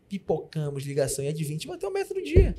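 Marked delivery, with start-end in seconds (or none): 1.6-2.5 excited. Real, not acted. Triumphant report.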